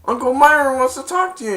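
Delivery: high, loud, quick quote; villain calling out. Retold or imitated. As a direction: act out a chasing villain's call. Acting the villain chasing.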